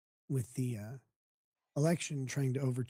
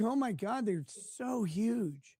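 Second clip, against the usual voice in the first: mock gasp; 6 semitones higher, slower than usual. Impersonating fat people.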